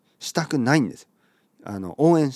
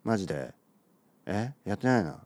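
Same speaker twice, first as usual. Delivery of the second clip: high schooler mumble. Acted. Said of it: "高校生が友達と話す時に".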